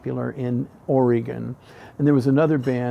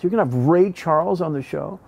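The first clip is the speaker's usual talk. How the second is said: astonished echo, leaning on the singer's name; acted-out incredulous question; retold amazement; 2 semitones higher than usual. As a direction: repeat it in mounting disbelief. Retold reaction, repeated more emphatically.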